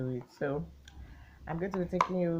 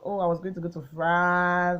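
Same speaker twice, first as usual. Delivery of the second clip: put-on louder, lightly relived childhood excitement; retold excitement; 6 dB louder than usual. Child thrilled about a trip to France, excited. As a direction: share the big news with mild glee. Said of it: "Everybody was excited".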